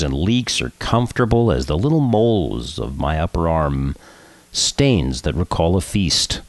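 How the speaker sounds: solemn, measured poem recital; poetry reading. Acted. Host reads Passover poem on air, solemn recital. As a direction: read it gravely, falling at phrase ends.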